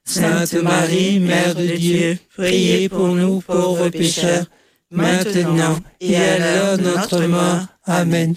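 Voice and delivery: level, monotone rosary chant; choral prayer response. Real, not acted. Congregation answering the leader in the Hail Mary, monotone prayer. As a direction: draw the words out evenly, all together.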